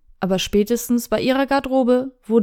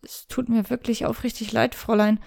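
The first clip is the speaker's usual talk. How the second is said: softer, earnest apology; ashamed apology; 5 dB quieter than usual. Acted. Ashamed knight apologizes to Shirayuki, soft earnest. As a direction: stammer out a sincere sorry. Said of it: "stammelte seine ernst gemeinte Entschuldigung".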